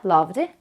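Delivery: "loved" as lov-d, rising at the end; voiced d ending. Shown as a demonstration. Teacher repeating the voiced rule, "loved" with d ending. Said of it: "드로 발음을 해줍니다".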